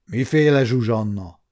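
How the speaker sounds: mildly puzzled character voice; understated bewilderment; puzzled question. A narrator's reading. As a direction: ask it uncomprehendingly. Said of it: "kérdezte Bálint úr értetlenül".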